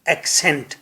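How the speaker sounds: soft, falling ایکسینٹ; accent model. Shown as a demonstration. Teacher models ایکسینٹ for class. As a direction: say ایکسینٹ clearly and softly. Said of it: "Say with me".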